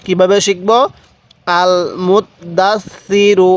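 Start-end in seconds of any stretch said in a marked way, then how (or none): 1.5-3.5 "আল মুত দাস সি রু" slow, syllable by syllable, doubled letters held; tashdid demonstration. Shown as a demonstration. Teacher showing learners how to join doubled letters, slow syllable-by-syllable demonstration. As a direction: sound out "আল মুত দাস সি রু" slowly, doubling the marked consonants. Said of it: "এরকমভাবে পড়ব".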